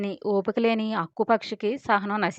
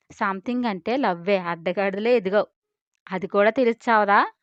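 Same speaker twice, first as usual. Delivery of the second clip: frustrated scolding; 3 dB louder than usual. Acted.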